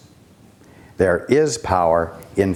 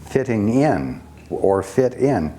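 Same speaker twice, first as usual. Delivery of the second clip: FITTING IN and FIT IN set off with emphasis; stress on fit in; 3 semitones higher than usual. Shown as a demonstration. Teacher showing which words to stress, emphasis on FITTING IN. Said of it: "Put the emphasis on the words fitting in".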